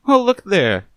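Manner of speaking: sharp, mocking movie star voice; Vivian, mocking. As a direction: scoff at the detective coolly.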